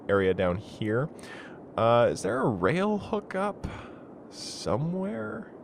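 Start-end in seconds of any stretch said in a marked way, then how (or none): 1.8-5.5 higher, slow, mildly silly voice; a hint of a goofy searching character; put-on puzzled voice. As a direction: wonder aloud in a lightly comic voice. Searching for a rail hookup.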